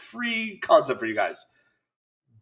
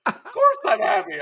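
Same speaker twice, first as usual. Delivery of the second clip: tag; 9 semitones higher than usual. Retold or imitated. Acted emotional answer to his wife.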